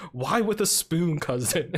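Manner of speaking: slow, drawn-out mock question; lightly acted movie quote, stretched out slowly; Robin Hood cousin's line. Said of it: "his cousin's like".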